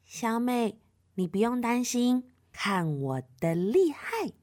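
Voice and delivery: soft, reassuring big sister; kindly comforting voice; gentle. Acted. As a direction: soothe her tenderly, slowing toward the end. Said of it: "很温柔地说".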